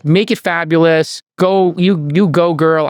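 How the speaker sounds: sassy, drawn-out cheerleading; lightly hammed-up sassy affirmation. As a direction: give a playful, sassy pep talk. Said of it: "in a very sassy way".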